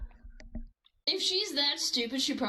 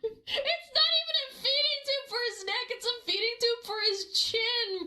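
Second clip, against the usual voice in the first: laughing through words; 11 semitones higher than usual. Real, not acted. Mocking the feeding tube.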